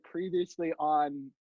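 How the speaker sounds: slow announcer recap; deep TV intro voice. Pretend. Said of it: "at the beginning of a play when they say".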